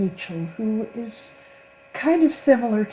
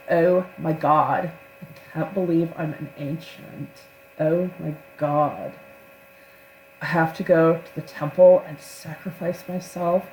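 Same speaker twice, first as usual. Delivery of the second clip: bubbly, sarcastic. Retold or imitated. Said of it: "bubbly sort of voice".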